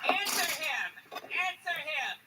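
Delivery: mock heckler yell. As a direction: parrot the heckler's shout. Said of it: "yell something that makes no fucking sense".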